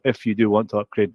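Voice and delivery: "if" given clear emphasis; stress on "if". Shown as a demonstration. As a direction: put the weight on "if". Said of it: "I stress the word if".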